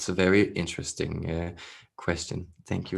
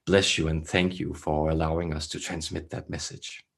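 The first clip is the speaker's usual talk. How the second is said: measured, throaty channeler with long pauses; throaty channeled voice. Acted. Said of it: "they speak in such a throaty".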